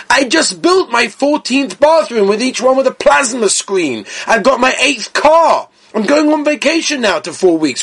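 indignant, high-pitched protest, lightly acted; mock-protest as a self-satisfied congregant; complacent congregant. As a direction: brush the rabbi off, playing someone who has it all.

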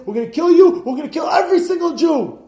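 high, loud raging accusation; furious emperor. Retold or imitated. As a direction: roar like an insulted emperor. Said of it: "And he says".

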